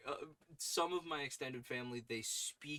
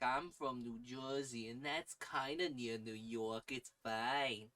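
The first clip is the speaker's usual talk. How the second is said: New Jersey accent; slower than usual. Shown as a demonstration. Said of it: "this is the stereotypical".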